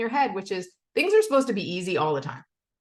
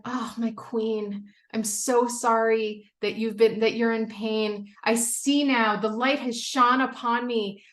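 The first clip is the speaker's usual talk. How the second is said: mock worshipful servant; 3 semitones higher than usual. Imagined family worshipping her.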